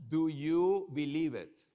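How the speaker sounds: rally the audience loudly; loud question. Real, not acted. Speaker to conference crowd, loud slow question. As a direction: call it out loud and slow to the room.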